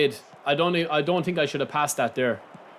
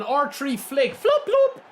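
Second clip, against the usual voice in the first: laughing; 7 semitones higher, much slower than usual. Real, not acted. Laughing after the goal.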